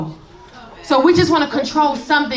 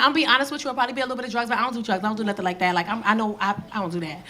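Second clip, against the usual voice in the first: put-on softer, sheepish teen confession; 4 semitones lower, 8 dB quieter, much faster than usual. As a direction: mumble it like a guilty kid. Daughter voiced, quiet.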